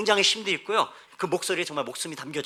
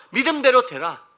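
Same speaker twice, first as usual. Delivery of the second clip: higher, forceful declaration of scripture; loud proclamation; 8 semitones higher, 10 dB louder than usual. Acted. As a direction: proclaim it like a command. Scripture proclaimed, then repeated softly. (높고 크게 선포하듯)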